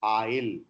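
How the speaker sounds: "Oil," with a full oi glide, low; proper oi glide. Shown as a demonstration. Teacher models the correct vowel in "Oil,". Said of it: "We substitute use".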